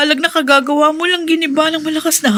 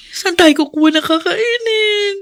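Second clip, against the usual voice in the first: tearful worry; 4 semitones higher than usual. Acted. Wife worries about food.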